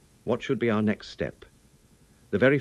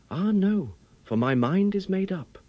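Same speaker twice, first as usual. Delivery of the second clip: devoted resolve; 11 semitones higher than usual. A narrator's reading. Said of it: "eyes shone with the devotion of a martyr".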